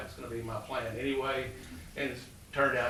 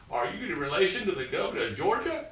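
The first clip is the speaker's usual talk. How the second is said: put-on Southern Georgia accent; 6 semitones higher than usual. Dean grilling the nervous applicant, in a light Southern Georgia accent. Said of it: "in this deep Southern Georgia accent".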